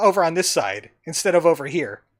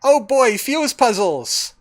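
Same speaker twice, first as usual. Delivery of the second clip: mock thrill at a tired puzzle type; sarcastic glee; 4 semitones higher, 5 dB louder, slower than usual. Real, not acted. Player mocking the stale fuse puzzle with sarcastic cheer.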